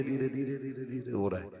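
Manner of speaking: a playful fade from normal to soft; fading away. Shown as a demonstration. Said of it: "तो ये धीरे".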